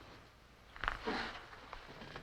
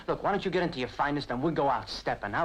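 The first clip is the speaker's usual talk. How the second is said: mounting eagerness, rising higher through the list; eager pitch; 3 semitones higher than usual. Acted. Man pitching a night out to his girlfriend, eager. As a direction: talk up the plan, voice lifting as it goes.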